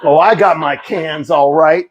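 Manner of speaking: mock tough-guy boast. Husband boasting to wife about the cans, mock tough. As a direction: say it with put-on swagger. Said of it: "I was a tough guy".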